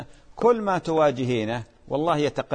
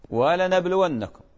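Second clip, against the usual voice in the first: ولنبلونكم said slowly and higher, each syllable marked; stressed Quran word; 5 semitones higher, 3 dB louder, slower than usual. Shown as a demonstration. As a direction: lean slowly on ولنبلونكم to show its oath lam. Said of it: "لام القسم". (نطق ولنبلونكم ببطء ونبرة عالية)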